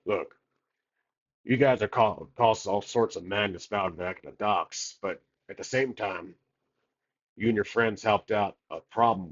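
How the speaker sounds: lightly voiced captain with a southern accent. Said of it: "like, a southern accent".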